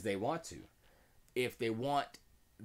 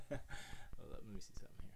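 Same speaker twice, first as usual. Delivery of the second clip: whispered under the breath to self; 4 semitones lower, 7 dB quieter, much faster than usual. Real, not acted. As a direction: murmur it almost silently. Whispers while fixing the audio.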